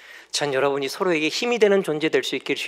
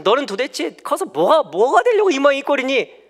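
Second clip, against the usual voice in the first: yelling parent; 9 semitones higher, 6 dB louder than usual. Retold or imitated. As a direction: shriek at the child in frustration. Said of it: "이렇게 얘기하는 게 아니라".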